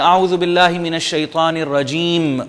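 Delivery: الرجیم ending in a silent meem; stop on meem. Shown as a demonstration. Teacher showing the pause on the final meem. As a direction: close الرجیم with no vowel. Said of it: "ہم رکتے ہیں تو ہم کہتے ہیں".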